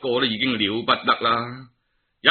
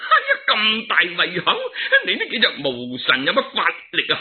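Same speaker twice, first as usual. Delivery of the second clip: mocking laugh; 4 semitones higher, faster than usual. Monkey King mocks the generals.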